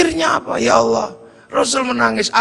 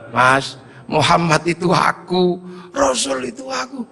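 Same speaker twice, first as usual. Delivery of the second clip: tearful, moved; 2 semitones lower, slower than usual. Retold or imitated. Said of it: "Aku terharu".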